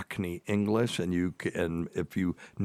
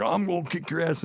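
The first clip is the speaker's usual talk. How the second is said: retold threat; 10 semitones higher than usual. Retelling an angry man's threat.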